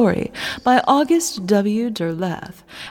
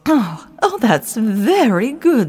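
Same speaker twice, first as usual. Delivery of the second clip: tight jaw; 2 semitones lower than usual. Pretend. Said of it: "trick of talking without moving my lips".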